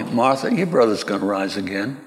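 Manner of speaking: calm, restrained reply. Acted.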